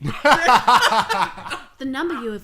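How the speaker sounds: automated phone voice. Pretend. Mock automated phone message.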